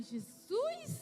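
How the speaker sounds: high, rising disbelieving cry; stunned. Retold or imitated. Robbed mother crying out to Jesus, high and stunned. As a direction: call out in shock. Shock at hacked bank account.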